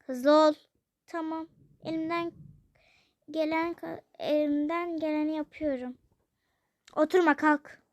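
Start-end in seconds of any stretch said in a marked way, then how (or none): 0.1-0.5 stern order. Acted. Father ordering her. 6.9-7.8 stern order. Acted. Father orders daughter up.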